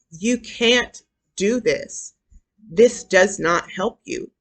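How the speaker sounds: slow, emphatic self-correction; firm self-talk. Acted. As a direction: tell yourself off firmly, word by word. Models stern self-talk to yourself.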